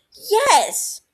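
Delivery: sharp high eager yes. Acted. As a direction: jump at the answer. Eager reply.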